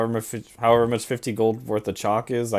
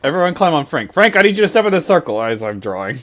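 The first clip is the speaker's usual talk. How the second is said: loud, raised-pitch rallying call; urgent, high and loud command; calling out orders; 5 semitones higher, 8 dB louder than usual. Acted. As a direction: call the whole group into action.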